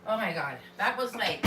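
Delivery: panting after running; breathless from running inside; out of breath. Real, not acted. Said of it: "I'm, like, out of breath".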